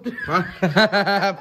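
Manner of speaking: hearty burst of laughter; open, amused laughing. Real, not acted. Amused at fast food answer.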